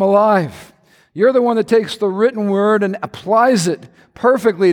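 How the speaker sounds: earnest prayer with music under it. Acted. Pastor praying over congregation, earnest prayer voice. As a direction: pray over the congregation, steady and devout.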